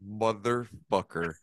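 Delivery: slow, soft, dismayed curse under the breath; muttered curse. Retold or imitated. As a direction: let the swear slip out slowly and quietly. Coach sees fighter hurt.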